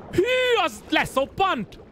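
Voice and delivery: 1 dismayed exclamation. Real, not acted. Dismayed at a game mishap.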